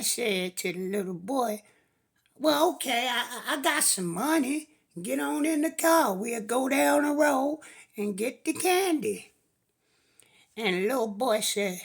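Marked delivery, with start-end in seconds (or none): 2.4-9.3 coaxing stranger. Acted. Stranger coaxes boy into car.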